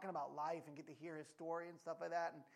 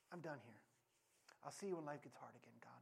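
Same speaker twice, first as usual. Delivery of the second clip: dismissive; 7 semitones lower, 10 dB quieter than usual. Acted. Voices people casually leaving God.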